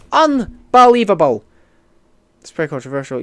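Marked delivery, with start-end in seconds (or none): 0.1-1.4 loud, high, drawn-out disbelief; mock outrage. Streamer reacts to being called an idiot, mock outrage. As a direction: draw it out in hammed-up indignation. Mock offence at a viewer's insult.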